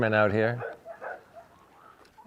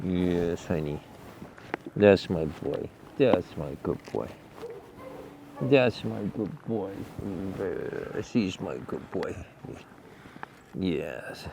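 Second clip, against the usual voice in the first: lower, much softer loving murmur; 5 semitones lower, 12 dB quieter than usual. Real, not acted. Owner murmuring to his good boy, soft and low. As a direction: hush it right down, just for the horse.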